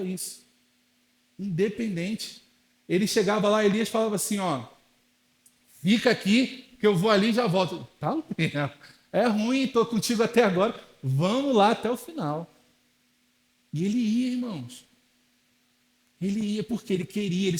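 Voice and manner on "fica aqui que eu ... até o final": louder, animated back-and-forth; lively retold dialogue. Elisha insists to Elijah he'll stay to the end, louder. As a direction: act out Elisha refusing to leave.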